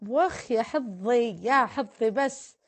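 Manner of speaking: drawn-out delighted "يا حظي", slow; slow, pleased "يا حظي"; flattered sigh. Real, not acted. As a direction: savour the compliment slowly. Flattered by compliment.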